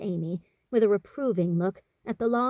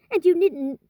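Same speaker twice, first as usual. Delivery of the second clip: with dignity; 10 semitones higher, 6 dB louder than usual. A narrator's reading. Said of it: "returned Amy with dignity".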